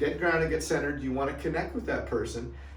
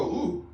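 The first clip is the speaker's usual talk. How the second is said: concerned ooh; 5 semitones higher than usual. Shown as a demonstration. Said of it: "but I'll go".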